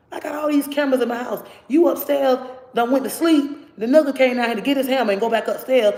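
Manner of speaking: high, loud heated telling-off; retold angry rant. To the boyfriend who accused her, high loud angry rant.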